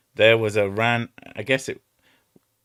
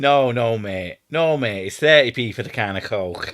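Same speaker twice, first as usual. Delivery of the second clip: a hint of a north-of-England shopkeeper; lightly voiced northern English mate; mock northern accent; 4 dB louder than usual. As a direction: answer like a northern shop assistant. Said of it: "one of them goes".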